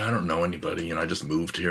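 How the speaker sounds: usual speaking voice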